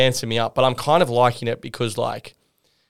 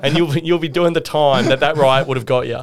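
mock judge; 3 semitones higher, 4 dB louder than usual. Imitating the judge sentencing.

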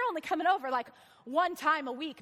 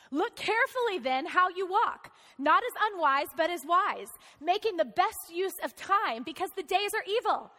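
scripture reading. Acted. Pastor reading Ephesians to congregation, measured proclaiming read.

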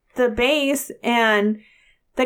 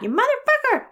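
road rage curse; 13 semitones higher than usual. Retold or imitated. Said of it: "I'll say".

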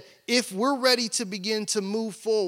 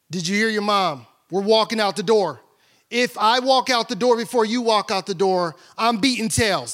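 stern dad warning; 5 dB louder than usual. Retold or imitated. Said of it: "I'm like".

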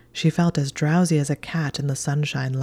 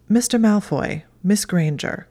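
high, loud prim scolding; stern cat voice; 5 semitones higher, 5 dB louder than usual. Acted. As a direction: call them out primly.

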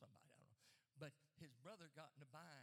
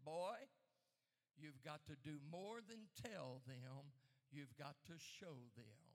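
loud, slow commanding voice; stern ghostly command; 7 dB louder than usual. Retold or imitated. Dead pastor rebuking the preacher, loud slow command. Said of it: "and he said".

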